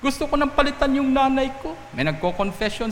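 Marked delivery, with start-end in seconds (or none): 0.0-1.8 high-pitched, exasperated grievance about a parent; hammed-up youngster's indignant complaint; angry child complaining. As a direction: act out a kid fed up with mother. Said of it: "galit na galit sa mga magulang nila".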